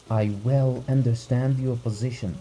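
a terrified husband begging for help; frightened urgency. Acted. Husband begs the doctor to come, frightened and pleading. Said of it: "spoke quickly in a shaking voice".

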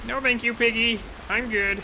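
hammed-up dainty decline; mock polite refusal. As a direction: decline sweetly in a put-on voice. Player voices polite refusal.

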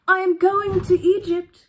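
high, loud, stretched-out announcement; excited cry. A narrator's reading. Swallow calling out to the busy harbour, high loud cry. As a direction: cry it out for everyone to hear. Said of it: "cried the swallow".

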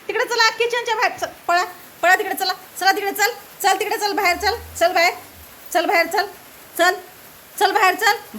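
high, loud repeated chase-out orders; shooing commands. Real, not acted. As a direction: drive the dog out of the kitchen. Chasing the dog out of kitchen. (कुत्र्याला स्वयंपाकघराबाहेर हाकलताना उंच, मोठ्याने)

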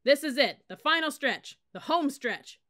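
rally the troops at full volume; drill yell. Acted. Sergeant yelling to fire up his cadets. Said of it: "First Sergeant Stockel yelled".

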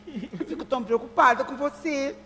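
tearful fretting. Acted. Worried mother to her son, working up to tears. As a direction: build from fretting into a weepy lament. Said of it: "vai começar a choradeira".

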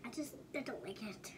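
unvoiced hushed whisper. Real, not acted. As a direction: whisper it shyly. Child whispers refusal.

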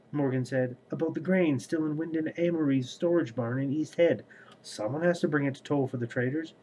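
steady, even read-aloud voice; audiobook-style reading with lightly voiced characters; story narration. A narrator's reading. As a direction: read the book passage to your viewers. Reads novel excerpt aloud.

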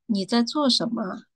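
standard Mandarin with a soft, light ending. Shown as a demonstration. Contrasting with Sichuanese, soft Mandarin ending. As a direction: let the tail of the line fade gently. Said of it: "它的尾音会很轻柔".

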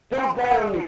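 high, loud dramatic cry; hammed-up anime despair; acted desperate plea. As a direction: plead at a high pitch. Acted plea to dying horse.

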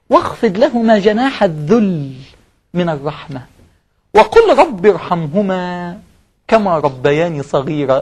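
very slow, drawn-out verse recital; slow scripture recital; Quran recitation. Acted. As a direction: recite the verse slowly and gently.

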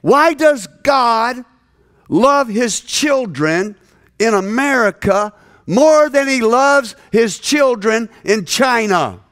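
high, slow, wounded question; retelling hurt Chinese leaders, high and slow; hurt pleading. Retold or imitated. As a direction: plead as if heartbroken. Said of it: "they said".

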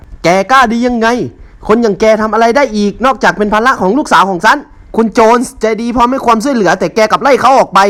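a high, shrieking furious scream; screaming at the top of her lungs. Acted. Mother-in-law screams at the son-in-law, shrieking rage. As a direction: scream at him with everything you have. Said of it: "ตะโกนสุดเสียงว่า".

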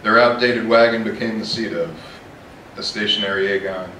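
measured poetry reading, firm line openings; deliberate, projected reading of a poem; poem recitation. Acted. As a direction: recite the verse in short phrases with pauses. Reads own poem aloud.

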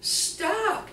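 high, loud firm call to stop; stopping the yelling. Retold or imitated. Teller halting the nurses' quarrel, loud and high. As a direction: cut the quarrel off firmly. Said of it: "I'm like".

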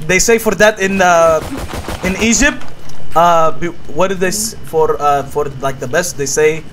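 put-on halting broken English in a thick foreign accent.

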